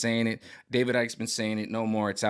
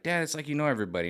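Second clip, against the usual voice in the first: put-on higher, quick little boy's voice; child voice; 6 semitones higher, faster than usual. A young son at pizza quoting dad, a light higher child voice. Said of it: "He'd be like".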